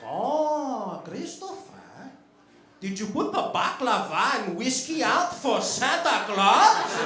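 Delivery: high, slow put-on dad voice; impression of dad. Dad on Christmas Eve asking his son, high slow mock dad voice. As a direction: stretch it out like a teasing dad. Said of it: "he'd be like".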